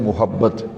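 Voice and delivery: first syllable of محبت with a short u; short u (pesh) on the meem of محبت; common mispronunciation. Shown as a demonstration. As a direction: say محبت as "muhabbat". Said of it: "میم پہ پیش پڑھتے ہیں".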